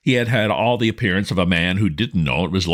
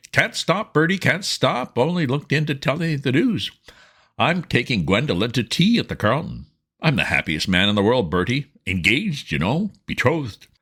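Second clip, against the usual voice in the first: higher, bubbling with happy news; excited Sippy; 7 semitones higher than usual. Acted. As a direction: gush it out, can't stop to talk. Excited Sippy announcing his engagement.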